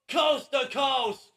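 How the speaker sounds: slow, shouted call of the move; slow drawn-out shout. Real, not acted. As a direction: stretch each word out in a shout. Big move called during match.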